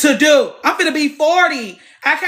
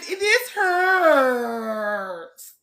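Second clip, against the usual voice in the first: crying out in pain. Real, not acted. In the frog pose, crying out in pain. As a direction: let the hurt break into a cry. Painful yoga stretch.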